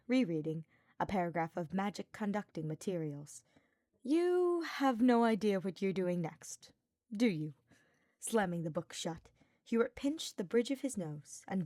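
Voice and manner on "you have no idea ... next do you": put-on higher, louder, playful young knight; cocky teasing Sylvain. Sylvain pestering Hubert about Ferdinand, teasing. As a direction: needle him with a grin in your voice.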